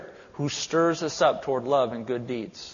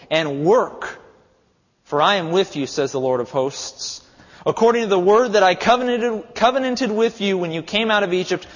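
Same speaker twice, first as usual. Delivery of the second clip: proclaiming; 2 semitones higher, 4 dB louder than usual. Acted. Proclaiming the Lord's words.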